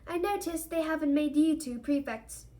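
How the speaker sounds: stern, pointed remark; frowning disapproval. A narrator's reading. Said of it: "frowning suddenly".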